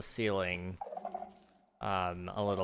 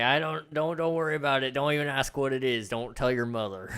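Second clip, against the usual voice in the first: shifty dad; 3 semitones higher than usual. Acted. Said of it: "It's like".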